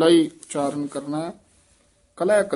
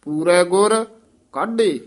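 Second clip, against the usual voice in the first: ਪੂਰੈ ਗੁਰ then a short stop before ਕਾਢੇ; pause after ਗੁਰ; 3 semitones higher, 5 dB louder than usual. Shown as a demonstration. Teacher demonstrating the pause after ਪੂਰੈ ਗੁਰ. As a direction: break the phrase after ਗੁਰ. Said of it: "ਪੂਰੈ ਗੁਰ ਇੱਥੇ ਠਮਕ ਲਾ ਦੇਣੀ ਹੈ".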